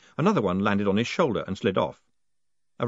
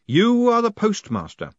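slow, loud, booming spirit voice; ghostly voice; 11 semitones higher, 6 dB louder than usual. Acted. The haunted post office pronounces Moist postmaster, slow and booming. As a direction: intone it like the building itself speaks.

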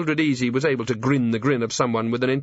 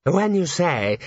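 fussy clerk voice; 8 semitones higher, slower than usual. A narrator's reading. Drumknot voiced.

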